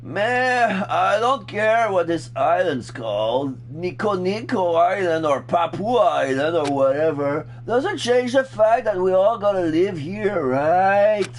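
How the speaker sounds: carefree voice. Acted.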